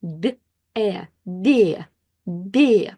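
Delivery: "d" as soft by, then "e", blended to "de"; "de" with softened consonant straight into e. Shown as a demonstration. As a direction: sound out then blend "de" as Russian бе. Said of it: "this ye disappears".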